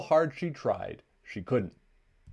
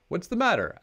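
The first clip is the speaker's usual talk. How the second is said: high, louder worried cry; alarmed question; 9 semitones higher, 5 dB louder than usual. A narrator's reading. Brother asking his crying mama what is wrong, alarmed and high.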